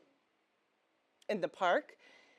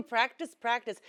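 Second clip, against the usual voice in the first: lifted, louder rehearsal of "Practice"; 4 dB louder than usual. Shown as a demonstration. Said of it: "and my voice, ooh, practice".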